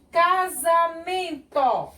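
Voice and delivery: "Casamento" slow and high, syllable by syllable; som de Z. Shown as a demonstration. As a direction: stretch "Casamento" with a z. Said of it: "eu falo casamento". ("Casamento" silabado devagar, com Z)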